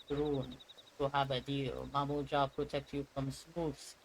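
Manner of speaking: lightly put-on Russian-like accent for game dialogue; faintly Russian-sounding character voice; almost Russian accent. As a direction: read the lines with a hint of a Russian accent. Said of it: "doing this almost Russian accent".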